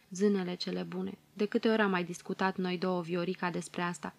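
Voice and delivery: soft, faraway musing; dreamy. Acted. Mother musing softly to her daughter, dreamy. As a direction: drift off into a memory. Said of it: "Mama visătoare zice".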